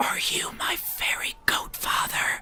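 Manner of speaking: breathy, hushed stage whisper. Voicing Pud as he looks around and asks the listener, stage whisper. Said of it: "he looks around and stage whispers".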